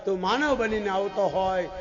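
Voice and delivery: loud plea, crying out to God; impassioned prayer. Retold or imitated. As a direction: call out each invocation with force. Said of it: "માતાજીએ પ્રભુને પ્રાર્થના કરી".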